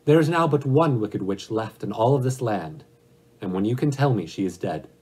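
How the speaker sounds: a hint of a commanding ruler setting a task; great Oz.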